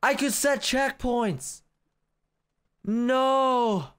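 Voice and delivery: high, slow wail of regret; agonized regret. Real, not acted. Player learning of checkpoints too late, agonized wail. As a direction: stretch it into a long despairing cry.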